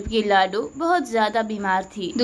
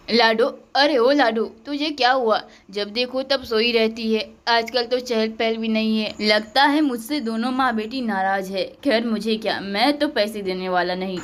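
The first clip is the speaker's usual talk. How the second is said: lower, gruff miser muttering; stingy father; 3 semitones lower than usual. Acted. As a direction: grumble like a penny-pinching dad. Miser father calls, grumbles.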